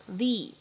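"the" said slowly with stress. Shown as a demonstration. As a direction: lean on "the" before a vowel. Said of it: "定冠词the需要重读，变成the". (重读的the)

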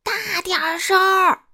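loud, high holler; impatient shout. A narrator's reading. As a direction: yell at him to speak up. Grocer demands louder speech. (高声大喊)

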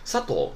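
sato said with its pitch falling; falling pitch accent. Shown as a demonstration. Teacher showing students sato with a falling pitch accent. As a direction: say sato with a falling tone, not rising. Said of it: "是降调的".

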